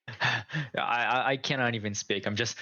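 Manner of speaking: out of breath, sighing between words; huffing and puffing. Pretend. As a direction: gasp the words out after the sprint. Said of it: "huffing and puffing".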